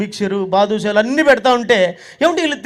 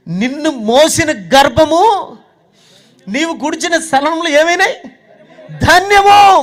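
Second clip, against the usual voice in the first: rising, laughing, louder blessing; joyful praise; 4 semitones higher, 5 dB louder, slower than usual. Retold or imitated. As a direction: cry out the blessing with delight. Woman in crowd praising loudly.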